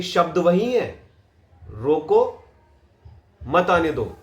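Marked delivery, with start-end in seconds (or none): 1.7-4.2 rising "रोको", long break, then "मत आने दो" together; pause after रोको. Shown as a demonstration. Coach shows same words, new meaning, pause after रोको. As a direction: cut after रोको, run "मत आने दो" as one. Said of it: "अब मैंने रोको".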